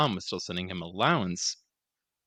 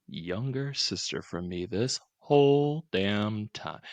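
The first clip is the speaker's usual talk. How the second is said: mock charmer. Ronald flirting with mom.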